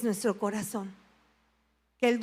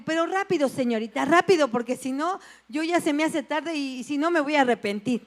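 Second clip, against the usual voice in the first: hurried pleading; 3 semitones higher than usual. Retold or imitated. Patient urging the nurse to be quick before she regrets it. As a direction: hurry her before you back out.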